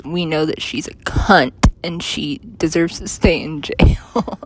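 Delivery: whispered aside; conspiratorial whisper. Real, not acted. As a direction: whisper it like a naughty secret. Joking aside about the singer.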